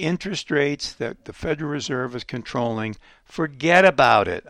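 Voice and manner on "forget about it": New York "forget about it", louder; tossed-off New York wiseguy line; New York accent. Retold or imitated. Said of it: "I'll give you the New York, uh, accent there".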